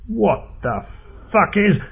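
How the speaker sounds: high-pitched stunned outburst; startled, halting cry of disbelief; shocked disbelief. Acted. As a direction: blurt it high, breaking off midway. Cut off by sudden attack.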